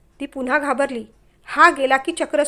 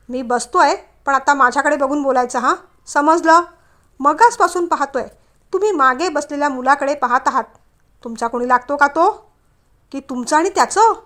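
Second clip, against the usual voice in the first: suspicious scolding; 5 dB louder than usual. Acted.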